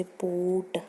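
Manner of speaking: पोट said slowly with a short o. Shown as a demonstration. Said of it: "छोटे ओ की sound आएगी".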